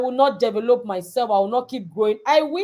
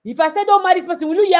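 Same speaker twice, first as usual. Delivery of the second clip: higher, louder, rushed scolding; stern mother; 5 semitones higher, 3 dB louder, faster than usual. Retold or imitated. Mother scolding disobedient daughter, loud stern. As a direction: scold her fast. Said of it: "I said".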